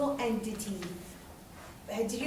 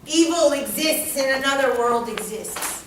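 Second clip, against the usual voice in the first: loud, raised-pitch mock outrage; acted angry scolding; 3 semitones higher, 8 dB louder than usual. Teacher playing spirits accusing the student, angrily. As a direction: berate them like a vengeful spirit. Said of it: "No, they're going".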